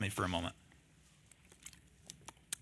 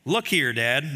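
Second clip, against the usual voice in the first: disrespectful son; slower than usual. Acted. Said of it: "Not a great way to talk to your dad".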